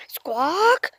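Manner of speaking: whispered rising squawk. Pretend. I heard that.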